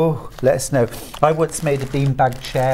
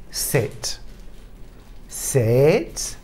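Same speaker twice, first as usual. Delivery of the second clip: firm dog commands; 4 dB quieter than usual. Shown as a demonstration. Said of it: "You ready for this?".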